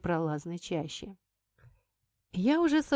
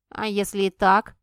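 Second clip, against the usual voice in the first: put-on snapping boy; 7 dB louder than usual. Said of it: "огрызнулся малец".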